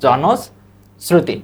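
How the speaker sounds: জনশ্রুতি said very slowly, syllable by syllable; teacher drawing out জনশ্রুতি to show the sound; slow pronunciation demo. Shown as a demonstration. Teacher showing students how to say জনশ্রুতি, slow and careful. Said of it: "উচ্চারণটা এভাবে লিখবো আমরা".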